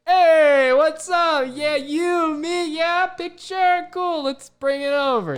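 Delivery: high, loud cartoonish mascot chatter; mascot's inner voice. Mascot miming to fans, cartoonish high chatter. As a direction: chirp it like a goofy mascot waving people over. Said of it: "just being like".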